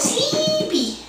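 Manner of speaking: high laughing sing-song; laughing high tease. Real, not acted. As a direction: giggle it at the dozy pet. Teasing sleepy pet.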